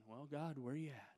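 soft, breathy whisper of someone searching; hushed whisper. Retold or imitated. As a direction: whisper it as if looking around. Elijah searching for God quietly.

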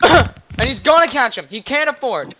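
wrestling commentator tracking a chase; live play-by-play. Pretend. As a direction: call each moment as if it counts. Play-by-play of game.

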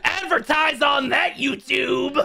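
mock shouted dare. Real, not acted. Cheering a crude joke.

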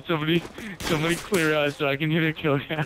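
tipsy, laughing between lines. Real, not acted. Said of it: "You're laughing too much".

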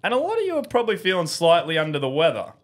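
smooth commercial voice-over; ad read. Acted. Host reading a fake sponsor spot to viewers, in an ad voice. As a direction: sell it like a pharmacy ad.

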